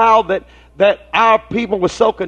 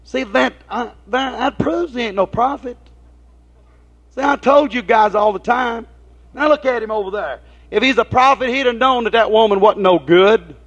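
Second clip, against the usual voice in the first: raised pitch, sneering gossip; a gossip pitched up, egging on the guys; gossiping Judas; 4 semitones higher than usual. Retold or imitated. Preacher voicing Judas gossiping to his friends, mock sneering. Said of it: "He started to whisper".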